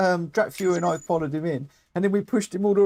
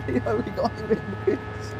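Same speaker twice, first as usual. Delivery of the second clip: gleeful gloating; 8 semitones higher than usual. Real, not acted. Gloating over rival in pits.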